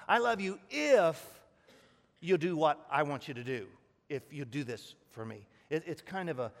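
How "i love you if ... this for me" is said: a hammed-up demanding lover; emphatic mock lover. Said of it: "let's sum it up this way".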